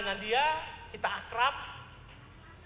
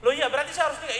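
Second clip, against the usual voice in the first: surprised; 4 semitones higher, 6 dB louder, faster than usual. Retold or imitated. Pastor acts his surprised question.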